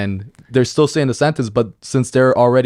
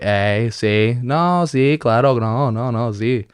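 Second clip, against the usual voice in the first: slow rural Durango; much slower than usual. Shown as a demonstration. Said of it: "we speak a little slower".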